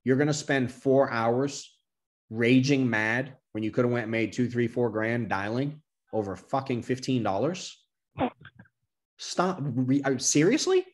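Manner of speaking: mock-stern rant that rises into disbelief; exasperated lecture to agent. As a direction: scold a panicking agent, ending in disbelief. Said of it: "I'm like".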